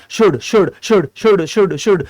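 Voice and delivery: "should" said shood over and over, silent L; repeat after me drill. Shown as a demonstration. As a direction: drill "should" for students to echo. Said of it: "बोलो मेरे साथ". (मेरे साथ दोहराइए, should बिना एल)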